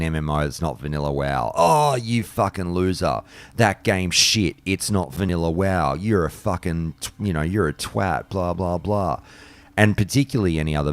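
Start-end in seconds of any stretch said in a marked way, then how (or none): 1.5-9.2 slightly raised, sneering imitation; mock ridicule. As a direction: imitate a scornful gamer putting someone down. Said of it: "they ridicule everyone and anyone".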